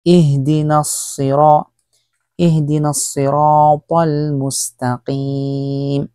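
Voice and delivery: slow, drawn-out tajweed chant; slow Quran recitation. Shown as a demonstration. Teacher recites the Fatiha slowly for students.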